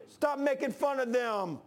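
laughing mock scold. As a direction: scold Elijah while laughing at it. Imagined rebuke, laughing.

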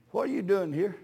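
soft, low, gentle question; kindly. Retold or imitated. The Lord asking a young man on the bench, kindly. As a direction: ask it gently, as the Lord would. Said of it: "So kindly, he said".

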